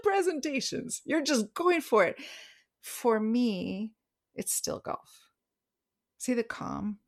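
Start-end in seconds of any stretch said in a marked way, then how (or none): 4.3-5.3 whispered aside, barely voiced; playful whisper. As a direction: drop to a secret whisper. Playful aside about her example.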